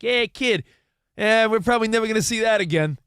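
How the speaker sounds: put-on half-hearted Boston accent; attempted Boston accent. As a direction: have a clumsy go at a Boston dad. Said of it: "Was that a Boston accent?".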